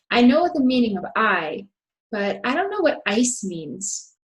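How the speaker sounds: teacher's model with weight on I and ICE; vocabulary words emphasized. Shown as a demonstration. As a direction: punch I at the end of "meaning of I", and ICE. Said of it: "really emphasizing the vocabulary words".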